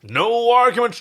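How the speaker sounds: high, loud shout with a lisp. Acted. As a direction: bark the order with a lisp. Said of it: "play a lisp for, for comedy".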